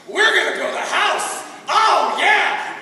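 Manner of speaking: high, pumped-up cheering; hammed-up eager whooping; excited team cheer. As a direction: cheer it, bursting with anticipation.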